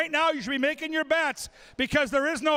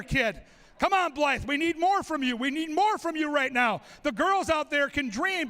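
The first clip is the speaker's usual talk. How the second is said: fast lively sports commentary; play-by-play. Acted. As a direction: call the race as it happens. Live play-by-play of eating race.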